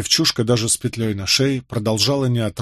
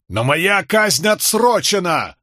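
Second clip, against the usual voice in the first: high, drawn-out wail of protest; desperate outcry; 7 semitones higher, slower than usual. A narrator's reading. Condemned man protesting to soldiers at the scaffold, desperate outcry. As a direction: cry out in protest, pitched well up. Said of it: "возопил Болейн".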